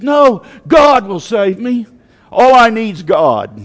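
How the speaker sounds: preacher acting out stubborn faith; defiant refusal. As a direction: turn down rescue with loud conviction. Acting flood victim refusing rescue.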